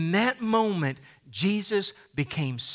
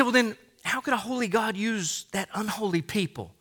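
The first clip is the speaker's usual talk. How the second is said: imagined doubter's question; 4 dB quieter than usual. Retold or imitated. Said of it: "You say".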